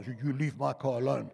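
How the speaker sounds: mock protest through laughter; laughing protest. Pastor laughingly retells refusing the valet, amused. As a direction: chuckle while guarding the car. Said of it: "pastor retells his own protest".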